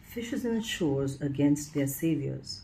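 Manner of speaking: lyrical, lilting poem reading with rises; poetry recital. Acted. Reading her student's ballad to her viewers, lyrical recital.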